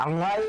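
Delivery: "আইন" made in the throat; throaty Arabic "আইন"; throat letter. Shown as a demonstration. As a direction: pronounce "আইন" from mid-throat. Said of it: "কণ্ঠনালী থেকে করতে হবে".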